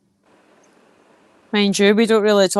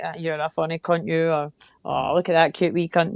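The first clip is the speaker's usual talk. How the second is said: softer, lower fond teasing; affectionate swearing; 4 semitones lower, 4 dB quieter than usual. Shown as a demonstration. Talking to the weans, fondly sweary. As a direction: swear nicely, as to little ones. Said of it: "I prefer to use it nicely".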